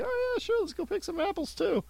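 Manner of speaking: high-pitched, sing-song retold enthusiasm; mock eager agreement. Co-host retelling agreeing to pick apples, mock eager. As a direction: jump up high and light, playfully agreeable.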